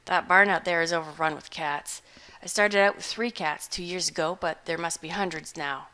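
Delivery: a hungover hermit shrugging it off; gruff old farmer. Acted. Butterbloom continues.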